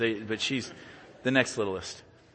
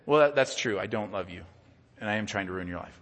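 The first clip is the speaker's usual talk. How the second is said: sarcastic; 4 semitones lower, faster than usual. Retold or imitated. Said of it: "it's called sarcasm".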